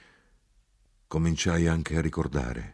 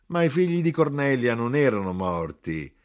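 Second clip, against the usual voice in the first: higher-pitched, protesting exclamation; raised, incredulous character voice; mother's protest; 7 semitones higher, 4 dB louder than usual. A narrator's reading. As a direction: object with surprise, voice lifted. Narrator acts mother's protest.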